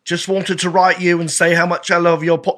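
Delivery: put-on English accent. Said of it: "no, it's English".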